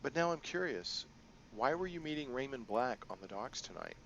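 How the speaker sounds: a hint of a sly crime boss; lightly voiced, playful boss lady; Kindly Ching.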